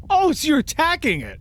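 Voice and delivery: high, incredulous rising question; amused surprise. Real, not acted. Game master learns the spell is an attack, amused disbelief. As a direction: blurt it high, tickled and surprised.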